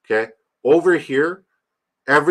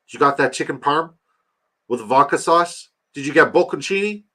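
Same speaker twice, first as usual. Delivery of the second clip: excited question; 4 semitones higher than usual. Real, not acted. Playful grilling about the friend's sandwich.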